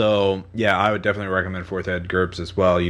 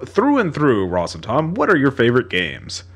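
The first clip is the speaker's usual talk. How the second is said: weird reedy voice; 4 semitones higher than usual. Acted. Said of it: "weird reedy voice".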